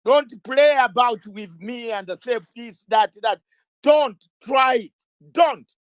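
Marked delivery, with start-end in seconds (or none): 3.8-5.7 slow, loud warning; stern warning. Real, not acted. Guest to host, warning him not to try it, slow and loud. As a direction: lay down the line, slowly.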